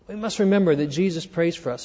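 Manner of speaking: fast, soft repeat, remember carried; quick restatement. Shown as a demonstration. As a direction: rattle it off quickly, stress remember. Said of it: "Here's number one".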